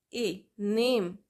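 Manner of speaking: drawn-out model of ए in नेम; slow teacher demo of the long a; slow sound demo. Shown as a demonstration. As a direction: stretch the vowel for students. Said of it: "ए के बहुत सारे sound होते हैं".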